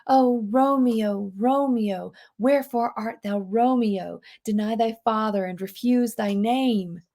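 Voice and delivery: soft dreamy recitation; soft, longing reading. Shown as a demonstration. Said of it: "so many soft sounds".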